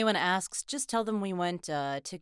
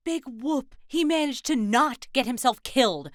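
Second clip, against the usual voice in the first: sarcastic scorn; 3 semitones higher, 4 dB louder than usual. Acted. Teammate dismissing the rookie's plea for credit, scornful sarcasm. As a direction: belittle the achievement with heavy sarcasm.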